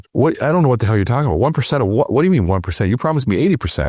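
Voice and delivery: replaying an exasperated protest; indignant new hire protesting his promised commission; upset. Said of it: "And I'm upset with him".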